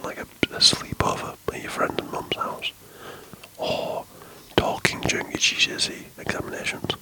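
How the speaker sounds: soft ASMR whisper; hushed podcast whisper, breathy and close. Real, not acted. Whispers all through podcast.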